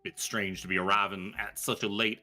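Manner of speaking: a hint of a refined old author, unhurried and wry; lightly voiced genteel gentleman, amused. Gentleman to the strangers in his kitchen, lightly voiced genteel. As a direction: play him polite but pointed.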